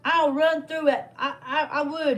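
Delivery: laugh-cry it out, overwhelmed; laughing through tears. Real, not acted. Grandmother telling viewers, laughing through tears.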